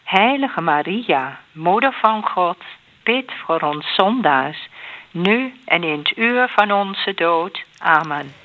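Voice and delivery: measured response with set pauses; prayer recitation. Real, not acted. Answering the Hail Mary with a plea to Maria, measured prayer recitation. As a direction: answer in an even rosary cadence.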